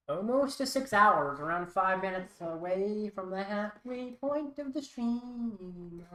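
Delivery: ugly lilting singsong voice; sing-songy. Real, not acted. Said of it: "sing-songy way".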